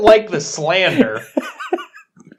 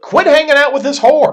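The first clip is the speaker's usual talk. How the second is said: pirate voice; 11 semitones higher, 6 dB louder than usual. Acted. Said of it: "I like how you're reading it like a pirate".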